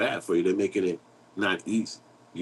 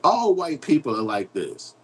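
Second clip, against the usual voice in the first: higher, slow, exaggerated generalizing; mock sweeping verdict; 6 semitones higher, slower than usual. Speaker quoting a judgment he won't make, mock sweeping verdict. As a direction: draw it out as a mock blanket judgment.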